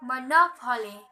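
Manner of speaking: "monopoly" with main stress on NOP; "monopoly", last two syllables left unstressed; stress on second syllable. Shown as a demonstration.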